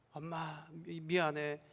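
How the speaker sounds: soft, tearful, understated sob; a quiet, hushed plea through tears; tearful apology. Retold or imitated. Wife quietly apologizing to her mother, tearful. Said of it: "막 울면서 통곡을 하면서".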